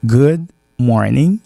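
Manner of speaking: "Good morning" slowly, mouth wide open on "good", a smiling spread on each vowel; open-mouthed pronunciation. Shown as a demonstration. Teacher showing students how the mouth opens, slow open-mouthed demo. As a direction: stretch "Good morning" out with an open mouth so the class can copy it. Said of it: "ça se prononce avec la bouche ouverte".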